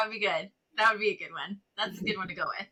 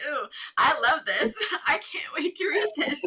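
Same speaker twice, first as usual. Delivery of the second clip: delighted gush; 5 semitones higher than usual. Retold or imitated. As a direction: gush over it through a laugh. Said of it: "I was like".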